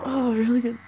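moaning between words. Real, not acted. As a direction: let the words melt into a moan. Aroused moaning.

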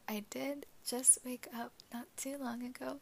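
raspy just-woke-up voice; groggy morning rasp. Real, not acted. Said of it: "excuse my morning voice".

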